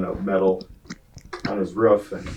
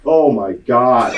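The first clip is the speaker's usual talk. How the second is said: mock Shirley gasp; 5 dB louder, slower than usual. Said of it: "Shirley's in the background".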